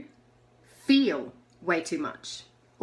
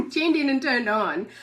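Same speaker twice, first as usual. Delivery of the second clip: the right phrase said through laughter; corrected, laughing; 4 semitones higher, 4 dB louder than usual. Real, not acted. Correcting her slip for viewers, still laughing. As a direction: fix the words while still laughing. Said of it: "Tu-, whatever".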